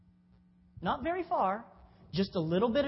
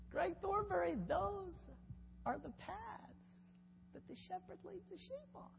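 high, soft quirky professor voice; Borchert's voice; 12 semitones higher, 9 dB quieter than usual. Retold or imitated. Preacher quoting his old professor, high and soft. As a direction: squeak it out, much higher and softer. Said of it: "And he talked like this".

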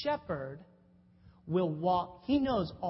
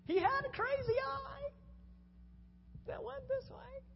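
lightly mocked high professor voice, much higher; squeaky high voice of an old professor; Borchert's voice; 4 dB quieter than usual. Preacher imitating his seminary professor, high pitched. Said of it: "And he talked like this".

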